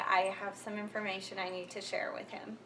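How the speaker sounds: a hushed conspiratorial whisper. Retold or imitated. Passing a secret message to the supervisor, whispered.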